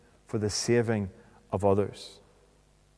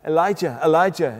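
raised, louder call of a name; mildly acted calling for someone; 5 semitones higher, 5 dB louder than usual. Preacher voicing what bystanders thought they heard, calling out. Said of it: "he's calling out for the prophet".

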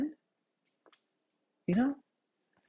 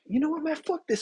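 fed up; 10 semitones higher than usual. Retold or imitated. Retelling his decision to fight back.

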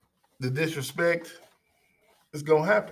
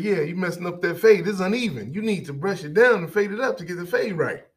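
higher-pitched nagging customer imitation; retold complaint, pushy and raised in pitch; mock complaining; 5 semitones higher than usual. Bossy customer telling the barber his fade is uneven, mock complaining.

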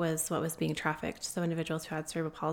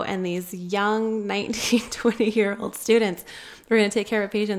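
excited; 3 semitones higher, 7 dB louder than usual. Real, not acted. Guest telling the hosts about nineteen-year-old doctors, excited and loud. Amazed at teen student doctors.

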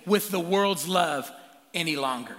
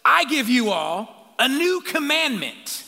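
loud, slow proclamation; loud solemn Jesus proclamation; Jesus preaching; 7 semitones higher, 7 dB louder, slower than usual. Retold or imitated. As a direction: announce it slowly like Jesus to the crowd. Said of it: "and he says this".

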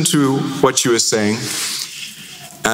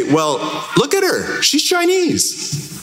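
mock onlookers; 11 semitones higher, slower than usual. People mistaking mom as Chinese.

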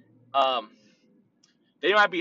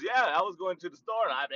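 imitating mumbling; 4 semitones higher than usual. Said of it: "All I hear is".

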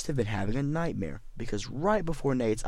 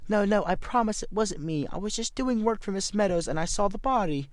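Nate voice; 10 semitones higher than usual. Acted. Nate pleads with police.

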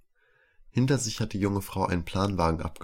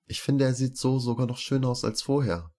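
smiling; 6 semitones higher than usual. A narrator's reading. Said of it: "fügt Zital lächelnd hinzu".

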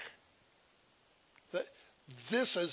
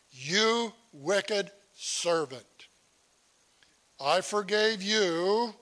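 stern king; 2 semitones higher, 3 dB louder, much slower than usual. Acted. King rebukes servant in parable.

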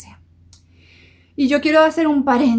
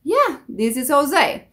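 easy, casual English reply; just go along with it; accepting English pronunciation; 4 semitones higher than usual. Shown as a demonstration. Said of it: "no la corrijas". (respuesta relajada sin corregir)

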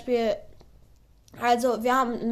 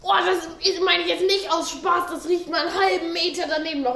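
high, grossed out; disgusted; 6 semitones higher than usual. Real, not acted. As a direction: recoil from the stink. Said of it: "Ich halt mir die Nase zu".

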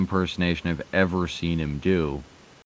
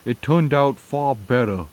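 high, loud mock Vermont accent; put-on Vermont accent, pitched up and loud; upper crust Vermont accent; 6 semitones higher, 5 dB louder than usual. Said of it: "upper crust Vermont accent".

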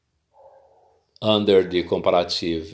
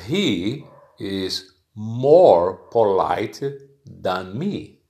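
slow example sentence; slower than usual. Shown as a demonstration.

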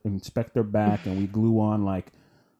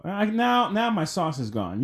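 voice gone high; 10 semitones higher than usual. Real, not acted. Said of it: "You heard my voice".

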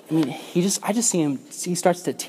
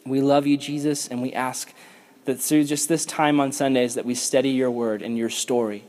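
closing prayer. Acted. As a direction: pray sincerely over the group.

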